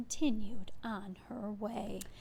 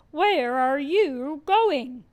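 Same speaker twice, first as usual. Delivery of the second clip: slow, louder, sly wolf drawl; 4 semitones higher, 9 dB louder, much slower than usual. A narrator's reading. Wolf slyly asking the girl where she goes, slow and loud. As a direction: stretch it out like a wolf luring a girl. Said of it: "said the wolf".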